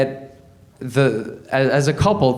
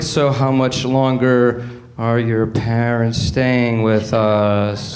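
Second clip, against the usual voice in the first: acted quote; 5 semitones lower, much slower than usual. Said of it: "You'll be like".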